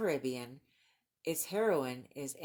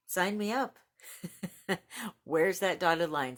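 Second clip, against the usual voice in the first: eager; 4 semitones higher, 4 dB louder than usual. Real, not acted. Eager about the new book.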